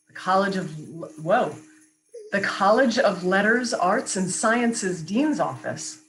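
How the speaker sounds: polished radio announcer credit read; sponsor read. Acted. Radio professional taking the show off air, announcer read. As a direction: announce each sponsor with crisp emphasis.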